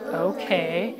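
low tough-guy reply. Shown as a demonstration. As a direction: model a low macho answer. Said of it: "Can you do it like he did?".

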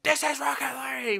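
shouted British caster call; British accent. Retold or imitated. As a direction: scream it like a British commentator. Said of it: "with, like, a British accent".

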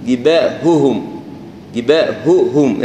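جباههم slow, each هاء sounded separately; جباههم بهاءين واضحتين; clear ha. Shown as a demonstration. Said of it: "لا هي جباههم".

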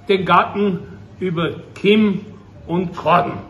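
measured, solemn verse reading with pauses; unhurried lines, falling at the close; poem recitation. Acted. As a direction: recite it like a contemplative Advent poem. Recites a Loriot Advent poem.

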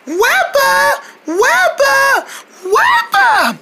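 high calling shout, close to tears. Acted. Mother cricket searching for her lost daughter, high tearful calls. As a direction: call frantically for your lost child.

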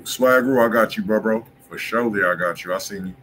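usual speaking voice

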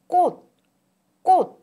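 꽃 said as kkot, final ㅊ as t; 꽃 with a clipped t ending; pronunciation demo. Shown as a demonstration. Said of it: "꽃 flower is pronounced in isolation".

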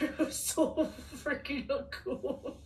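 slow, drawn-out words through laughter; real laughing amazement; laughing admiration. Real, not acted. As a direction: gush while giggling. Delighted fan reacting to him.

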